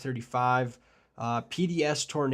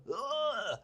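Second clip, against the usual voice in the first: high-pitched "ugh"; exasperated groan; 10 semitones higher, 4 dB quieter than usual. Real, not acted. Forecaster mixed up Wisconsin and Iowa, groaning. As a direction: groan at your own slip. Groan after mixing up state names.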